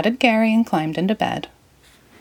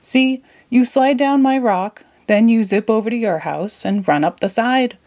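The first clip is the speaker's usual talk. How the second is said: Patrick explaining; 4 semitones higher than usual. Acted. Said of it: "Patrick explained".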